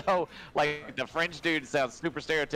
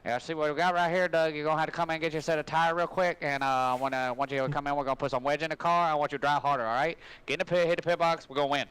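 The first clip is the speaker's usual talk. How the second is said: pit crew chief; 2 semitones higher, faster than usual. Pretend. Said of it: "A nascar, uh, pit crew manager".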